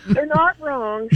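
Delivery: slow, laughing "They're not wrong."; amused, drawn-out aside; laughing quote. Retold or imitated. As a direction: let it laugh out slowly. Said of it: "And I was like".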